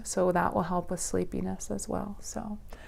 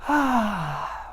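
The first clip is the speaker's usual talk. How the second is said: release sigh; 3 semitones higher than usual. Shown as a demonstration. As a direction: breathe out an ah. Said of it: "Or a ah".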